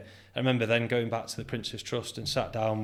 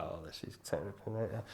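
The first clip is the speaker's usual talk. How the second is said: retold dismay; 2 semitones lower, 11 dB quieter than usual. Retold dismay at stormy weather.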